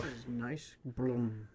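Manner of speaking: put-on a little boy cooing at a car; toddler voice. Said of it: "He didn't say car".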